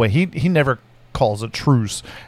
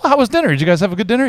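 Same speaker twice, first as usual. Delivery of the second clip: dad voice; 5 semitones higher, much faster than usual. Retold or imitated. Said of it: "he'd be like".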